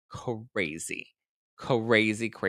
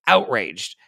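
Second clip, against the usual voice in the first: mock outrage; 7 dB louder than usual. Playfully dramatizes own past anger.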